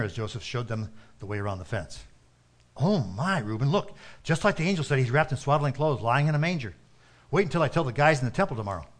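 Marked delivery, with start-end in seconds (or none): 2.8-8.9 eager, rushing amazement; breathless with wonder; excited shepherd. Acted. Shepherd marvels at the baby.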